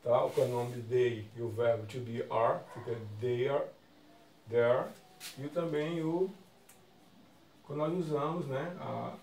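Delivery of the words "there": "there." said loud as "dér"; loud model word. Shown as a demonstration. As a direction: call out "there." to the class. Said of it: "Mesma pronúncia". ("there." dito alto e claro)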